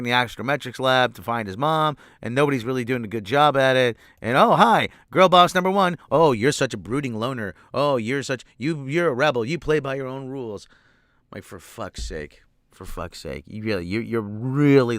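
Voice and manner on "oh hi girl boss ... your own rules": mocking voice. Mocking stereotype characters.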